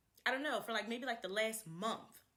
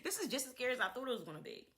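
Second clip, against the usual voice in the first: laughing it off; much faster than usual. Real, not acted.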